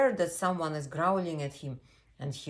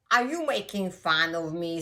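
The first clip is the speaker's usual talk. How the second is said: loud, affronted question; indignant storybook owl; offended owl; 3 semitones higher, 7 dB louder than usual. Acted. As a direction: challenge the copycat loudly. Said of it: "said the owl".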